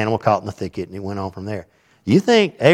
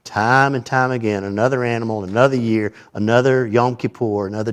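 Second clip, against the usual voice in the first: nauseatingly. Shown as a demonstration. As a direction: let "Time and time again" drag with a sick-of-it weariness.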